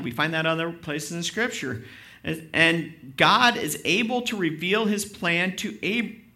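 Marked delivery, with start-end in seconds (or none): 2.2-6.2 slow, rhythmic, leaning on "God"; rhythmic delivery. Shown as a demonstration. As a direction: stretch it out and give it rhythm. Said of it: "got some rhythm there".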